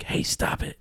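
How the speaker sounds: unvoiced whisper, slow; pretend-scolding whisper; whispered hey stop it. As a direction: hiss it under your breath. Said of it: "turn around every now and then and be like".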